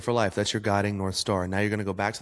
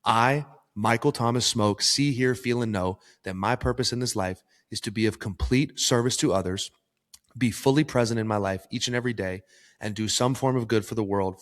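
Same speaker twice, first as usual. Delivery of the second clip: firm, declarative mission statement; emphatic personal affirmation; from the chest. Shown as a demonstration. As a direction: say it with conviction from the chest. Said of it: "Say it with your fucking chest".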